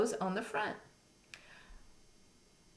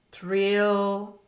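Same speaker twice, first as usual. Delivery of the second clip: louder rolled "Trill"; tree frog trill; 5 dB louder than usual. Shown as a demonstration. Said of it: "A gray tree frog says".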